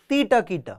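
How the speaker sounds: "ती, ट, की, ट" in separate syllables; alternate syllable name. Shown as a demonstration. Tabla teacher showing students another name, syllable by syllable. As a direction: sound out "ती, ट, की, ट" piece by piece. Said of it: "कई लोग इसको तीटकिट कहते हैं".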